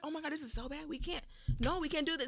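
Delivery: soft, disappointed murmur; hushed dismay. Retold or imitated. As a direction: drop to a horrified hush. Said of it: "I was like".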